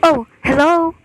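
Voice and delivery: sharp gasp, then a shaky hello; startled gasp into the phone; frightened gasp. Acted. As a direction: catch your breath in fear, then call out. Overhears murder plot, frightened.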